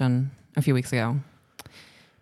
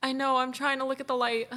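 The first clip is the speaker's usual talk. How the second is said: tearful, higher and much softer; trying not to cry; teary voice, much higher and softer; fighting back tears; 9 semitones higher, 7 dB quieter than usual. Real, not acted. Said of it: "You're gonna ruin your makeup".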